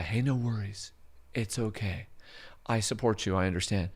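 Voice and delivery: calm her down softly; soothing. Retold or imitated. Comforting the crying tenant, softly. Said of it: "we're doing this surrender and comply".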